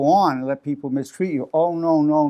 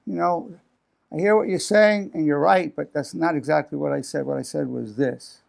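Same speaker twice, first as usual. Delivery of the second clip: calm. Retold or imitated. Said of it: "if you're really not having that reaction".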